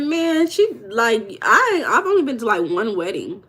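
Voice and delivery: breathless fan excitement; excited retelling. Retold or imitated. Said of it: "I said".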